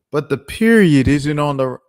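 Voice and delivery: high, loud whiny nitpick voice; mocking nitpicker. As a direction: mimic a petty critic. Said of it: "someone's response to it is like".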